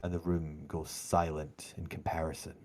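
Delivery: dramatic scene-setting, rising then settling; game master narration. A narrator's reading. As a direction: build to the fall, then ease down into silence.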